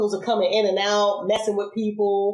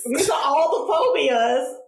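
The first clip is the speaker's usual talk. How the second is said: emphatic echo; 6 semitones higher, slower than usual. Real, not acted. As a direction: proclaim it like a punchline. Echoing friend with emphasis.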